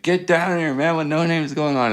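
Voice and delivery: high-pitched imitation of a DJ hollering; mock scream. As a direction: call people over in a pretend scream. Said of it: "He's, like, screaming".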